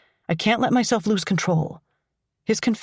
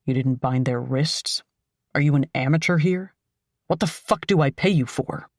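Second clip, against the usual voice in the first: lower, gruff criminal boss; 3 semitones lower than usual. Acted. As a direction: bark it like a contemptuous boss. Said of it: "That gruff voice rings out".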